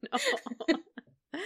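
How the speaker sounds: squeaky no. Real, not acted. Embarrassed about her laughing.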